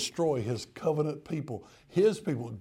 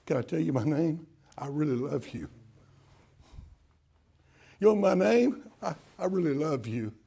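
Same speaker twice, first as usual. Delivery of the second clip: tender. Acted. God tenderly introducing himself.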